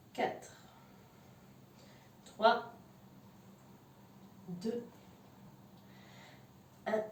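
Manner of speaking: breathless whispered countdown, mid-exercise; counting workout reps. Real, not acted. Coach counts down the last reps.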